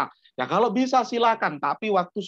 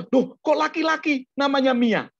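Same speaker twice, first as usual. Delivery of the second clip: puzzled teacher; 8 semitones higher, 3 dB louder than usual. Retold or imitated. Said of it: "Terus ya".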